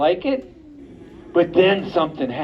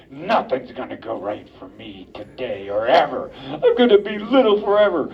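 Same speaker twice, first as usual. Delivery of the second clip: grumpy cub; 4 semitones lower than usual. Acted. Grumpy bear cub complains.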